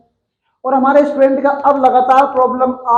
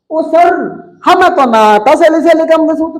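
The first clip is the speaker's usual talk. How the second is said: slightly higher voice, mock student confession; a hint of a protesting pupil, pitched up; lightly voiced student; 4 semitones higher than usual. Student admitting to sir the formula is unknown, lightly mimicked.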